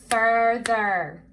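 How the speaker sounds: "Further" loud, split into fur, ther; syllable by syllable. Shown as a demonstration. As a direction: break "Further" into two strong beats. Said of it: "we're gonna break the word ap-, apart".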